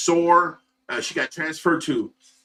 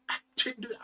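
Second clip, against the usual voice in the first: quiet repeat; 8 semitones higher, 11 dB quieter, faster than usual. Real, not acted. Repeating the denial.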